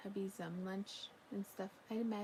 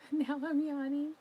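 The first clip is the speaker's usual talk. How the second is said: giggling, louder through the words; laughing; 5 semitones higher, 7 dB louder than usual. Real, not acted. Telling chat the yawns are catching, giggling. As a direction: laugh as you admit the yawn.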